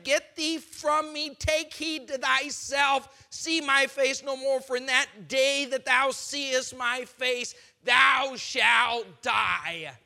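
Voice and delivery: loud, slow menacing shout; threatening king. Acted. Pharaoh driving Moses out, slow menacing shout. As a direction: roar the death threat.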